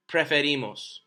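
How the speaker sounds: preferimos said plainly with e, no ie; correct form. Shown as a demonstration. Teacher to class: models preferimos clearly. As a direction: keep the e in preferimos.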